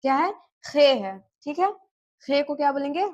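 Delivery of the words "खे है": "खे" with a rasped throat KH; throaty KH demo. Shown as a demonstration. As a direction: rasp the first sound of "खे" like Urdu khe. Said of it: "मैं जो बोल रही हूँ उस पे आप लोग ध्यान दीजिएगा".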